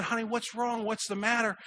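gentle concern. Retold or imitated. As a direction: ask like a caring counselor. Wife comforts a sobbing student.

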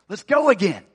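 a preacher's punchy rallying shout; rallying cry. Acted. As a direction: fire them up to get moving. Rallying the congregation.

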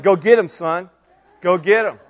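loud, punchy dad's encouragement; imitating a proud rallying call; retold cheering on. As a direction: cheer your kid on toward the field. Cheering his son on, retold.

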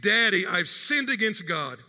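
a touch of tearful pleading, slowed; pleading anguish. Retold or imitated. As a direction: daughter begging forgiveness, understated. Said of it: "began pouring out her anguish".

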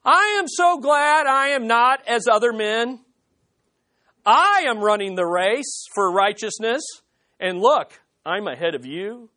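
a self-righteous man bragging to God; smug Pharisee. Acted. Preacher voicing the Pharisee praying proudly to God, smug.

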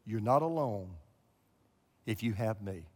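a hint of a hushed heavenly voice; voice of God. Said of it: "the voice came back".

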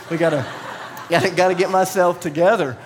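flustered, giggling to pull himself together; laughing freak-out. Retold or imitated. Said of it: "he's just freaking out".

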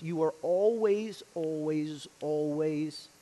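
trailing repetition of always; fading emphasis. Acted. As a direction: let each always sink away. Stress repeated word always fading.

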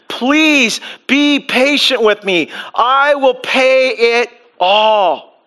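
slow, pleading servant on his knees; begging servant. Acted. Servant begging his master, slow and pleading. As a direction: beg the master slowly for patience. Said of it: "begged him".

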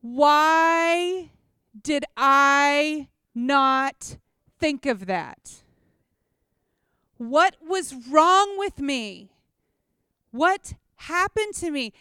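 stretched-out frustrated wondering; exasperated self-reproach. Retold or imitated. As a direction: scold yourself for not thinking of it. Berating herself after the fire.

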